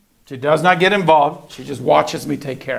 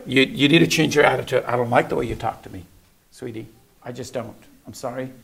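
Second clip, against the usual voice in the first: gentle correction; 4 semitones lower, 4 dB quieter than usual. Retold or imitated. Father gently correcting his daughter.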